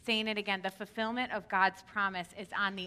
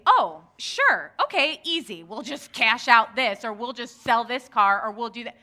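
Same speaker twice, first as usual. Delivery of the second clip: breezy mock ease; 5 dB louder than usual. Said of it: "Like, that's not a".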